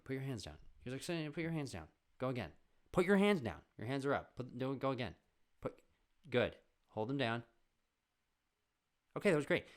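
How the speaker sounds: high teacher coaching. Retold or imitated. Teacher directing him.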